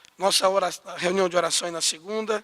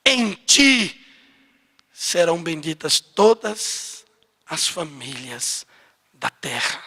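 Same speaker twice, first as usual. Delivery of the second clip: solemn scripture quote; 3 semitones lower, slower than usual. Acted.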